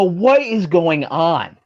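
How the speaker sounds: slow, stretched-out disbelief; bewildered. Retold or imitated. Wrestler recounting his reaction to the cast list, bewildered. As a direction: draw the question out, retelling total confusion.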